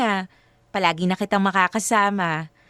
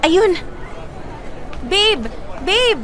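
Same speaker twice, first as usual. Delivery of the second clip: excited calling out; 10 semitones higher, much slower than usual. Acted. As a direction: call out to him, thrilled. Spots partner arriving at airport. (masayang pagtawag nang malakas)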